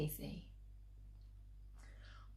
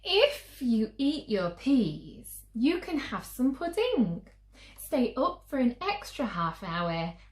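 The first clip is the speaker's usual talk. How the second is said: coaxing mum; 5 semitones higher, 4 dB louder than usual. Acted. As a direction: lay out the deal patiently. Mum bargaining again.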